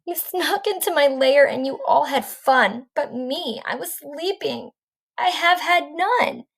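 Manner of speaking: sulking bear left out of the party; whimpering bear. Acted. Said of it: "he whimpers and he moans".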